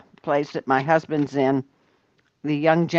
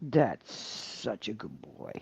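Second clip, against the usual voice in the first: pet praise voice; 8 semitones lower, 14 dB quieter, slower than usual. Acted.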